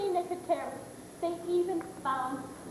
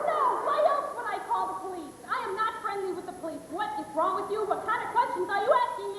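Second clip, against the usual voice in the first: hysterical; 3 semitones higher than usual. Acted. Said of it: "you're getting hysterical".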